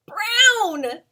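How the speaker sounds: high, loud answer shout; reveal. Acted.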